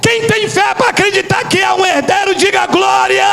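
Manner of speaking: high, stretched-out triumphant declamation; fervent preacher's cry; full-force preaching. Real, not acted. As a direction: proclaim it slowly to rouse the congregation.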